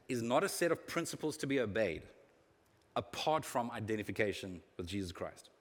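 deliberate reading with long pauses; slow reading. Real, not acted. Preacher reading a quote to marinate on, slowly. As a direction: read it slowly so each phrase can sink in. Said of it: "Let me read this slowly".

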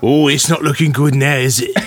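mock Cockney surgeon; Cockney accent. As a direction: put on Cockney, grimly assessing the patient. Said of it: "The Cockney".

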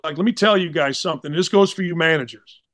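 imitating a stern coach, understated; stern, matter-of-fact. Coach addressing team and managers before the game, stern. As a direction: lay it down firmly without raising your voice. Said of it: "but he's stern".

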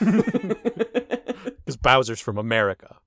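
laughing. Real, not acted. Slow laughing joke.

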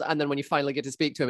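normal talking voice

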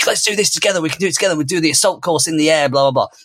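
high, bright pep-talk voice pitched well up; rally a small child with eager cheer; positive excited energy. Retold or imitated. Dad pumping up his son before the course, excited. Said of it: "you put in this really positive, excited energy".

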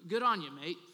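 a light attempt at an Australian accent. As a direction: have a mild go at sounding Australian. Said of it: "that was my best Australian accent".

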